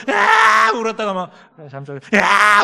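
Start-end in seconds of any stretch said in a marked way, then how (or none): 0.1-0.7 loud, high drawn-out wail; exaggerated crying shriek; mock wail. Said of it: "막 울어". 2.1-2.6 loud, high burst of fake bawling; hammed-up crying yell; mock wail. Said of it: "울었다가 또 잠잠해졌다가".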